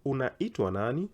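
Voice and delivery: "Unaitwa nani?" with a clear upward swoop on "nani"; high question intonation. Shown as a demonstration. Teacher drilling the question, voice rising on "nani". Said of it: "the intonation has to go high".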